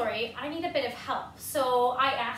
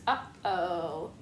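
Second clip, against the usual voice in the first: worried pigeon; 9 semitones lower than usual. Acted. Pigeon realizing.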